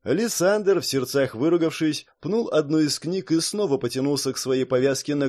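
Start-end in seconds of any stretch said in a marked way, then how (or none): none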